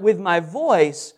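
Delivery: "voice" lifted and leaned on; stress on voice. Shown as a demonstration. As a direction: make "voice" the peak of the phrase. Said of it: "the word that's emphasized both times".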